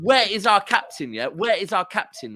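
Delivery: mild mock shout for the captain; retold shouting. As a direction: re-enact calling out from the stands. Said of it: "shouting at the top of my voice".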